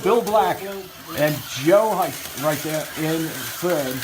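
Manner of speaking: lightly played TV race host; race announcer. Calls heat race lineup.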